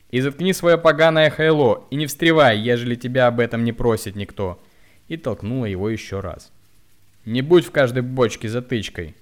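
loud high furious shouting. A narrator's reading. Woman shouts at the hunchback while pushing him. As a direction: shove him away with words.

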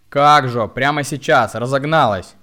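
sharp retort. A narrator's reading. Woman sharply mocks the hunchback, loud and sarcastic. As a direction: snap it back with sarcasm. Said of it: "резко ответила она".

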